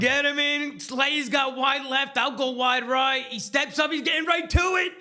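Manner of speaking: hushed, slow golf commentary building to a shout; golf commentator. Acted. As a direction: call the putt like a TV golf announcer. Play-by-play of the putt.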